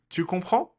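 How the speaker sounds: "Tu comprends?" pitched high, climbing at the end; question intonation. Shown as a demonstration. Teacher repeats the example for learners, rising question intonation. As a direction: make "comprends" rise as a model question. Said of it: "but the intonation is different".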